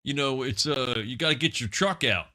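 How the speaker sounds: playful put-on redneck country accent; mock country accent. Host riffing on hockey and trucks, in a mock country accent. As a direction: talk hockey like a good old country boy.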